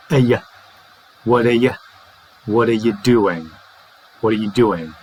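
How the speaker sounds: "uh yuh", then "whadda yuh", then "whadda yuh doing"; built-up weak forms. Shown as a demonstration. Teacher assembles the phrase for learners, weak forms. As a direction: build "What are you doing" up with reduced ARE and YOU. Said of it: "So we've got".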